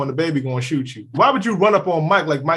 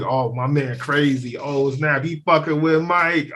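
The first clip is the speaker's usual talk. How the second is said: egging-on friend; 4 semitones lower, slower than usual. Retold or imitated. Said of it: "I can tell in his voice".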